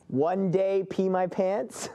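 slow question with rising end; drawn-out, questioning guess; puzzled guess. Pretend. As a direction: stretch it out, unsure, lifting the end. Guesses aloud what was whispered.

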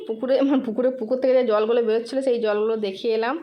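talking with a toothbrush in mouth; words blurred by brushing; while brushing teeth. Real, not acted. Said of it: "দেখো আমি brush করছি".

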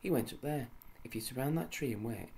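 high, loud urging; excited. Acted. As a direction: urge them on eagerly. Joe urging the elves.

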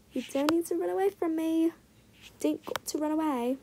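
briefly put-on British accent; lightly faked British lilt; mock British accent. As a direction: slip into a playful British accent. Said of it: "Turn British for a second".

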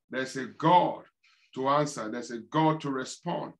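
prayer with tongues, intoning low; earnest preacher praying in tongues; fervent prayer. Acted. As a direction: pray it out earnestly, half-chanting.

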